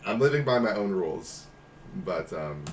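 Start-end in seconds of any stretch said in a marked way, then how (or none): 0.1-1.5 louder, emphatic repeat; louder proud declaration. Real, not acted. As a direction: proclaim it louder. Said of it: "Yes, I can't stop".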